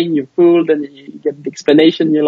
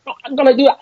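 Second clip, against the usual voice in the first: high, mock dubbed martial-arts line; playful parody of seventies kung fu dubbing; badly dubbed kung fu movie; 9 semitones higher, much faster than usual. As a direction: ham it up like an old badly synced kung fu film. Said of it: "kung fu movies from the seventies".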